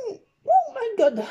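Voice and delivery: high, slow theatrical disbelief; mock shock. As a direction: act scandalised, drawing it out. Shock at the missing rainbow. (stupeur exagérée)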